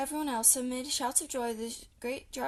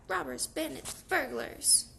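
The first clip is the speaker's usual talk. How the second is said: shrieking; slower than usual. A narrator's reading. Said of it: "shrieked Rat".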